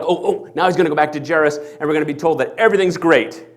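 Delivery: loud, eager anticipation; eager listeners. Acted. Listeners eagerly expecting Jairus' good news, loud. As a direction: hurry ahead to the happy ending. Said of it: "So now we're like".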